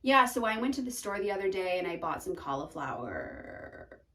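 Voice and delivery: low croaky fry trailing off; vocal fry. Shown as a demonstration. Teacher demonstrates fry on a trailing sentence. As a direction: let the sentence sink into fry. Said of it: "You hear how we kinda get into that".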